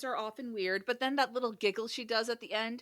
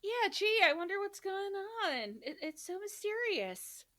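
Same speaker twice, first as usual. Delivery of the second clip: sarcastic; 8 semitones higher than usual. Pretend. Sarcastic mock wonder.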